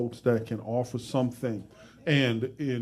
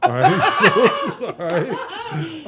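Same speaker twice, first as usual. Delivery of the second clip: laughing through the words; 7 semitones higher, 5 dB louder, much slower than usual. Real, not acted. Host laughing at his own joke to the guest, laughing. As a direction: chuckle the words out, higher and louder.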